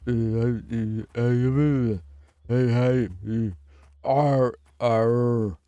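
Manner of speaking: mumbled tough-guy pirate attempt; grunted heys turning into pirate arrs; Stallone. Trying out how a pirate would sound, Stallone. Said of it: "Stallone is a pirate".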